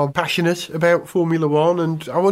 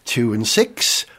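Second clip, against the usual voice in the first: bingo caller; 4 semitones lower than usual. Pretend. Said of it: "bingo caller on acid".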